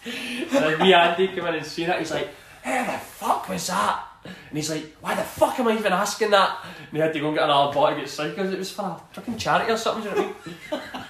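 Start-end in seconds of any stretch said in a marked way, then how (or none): 2.6-4.1 mock baffled outburst. Andy reacting to the ball. 5.0-6.6 mock exasperation. Andy reacting to the drawing.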